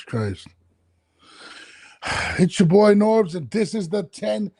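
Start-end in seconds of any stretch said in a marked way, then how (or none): 2.4-4.5 host opening the show, slow and drawn out; podcast intro. Acted. Host greeting listeners at the start of his podcast, announcer voice.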